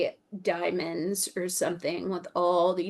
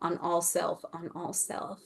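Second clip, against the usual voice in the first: fading echo; 3 semitones lower, 8 dB quieter than usual. Shown as a demonstration. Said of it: "enormous emphasis".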